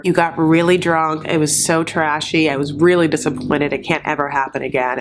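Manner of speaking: low, measured scolding, mildly stern; mock chastising. He chastises her the morning after, mildly stern imitation. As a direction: imitate a sit-down telling-off, voice sinking. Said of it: "sit down and chastise her".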